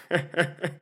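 brief amused laugh; bear chuckle. Acted. Bear chuckles at his remark.

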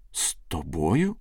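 drawn-out, disbelieving question; shocked cry. Acted. Young man stunned by his sweetheart's news, understated shocked cry. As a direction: stretch it slowly in mild shock. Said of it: "скрикнув Павло".

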